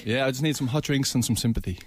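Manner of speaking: stuffy, sick man-flu voice. Real, not acted. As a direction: sound like you need sympathy and hot drinks. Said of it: "I'm suffering with a bit of man flu".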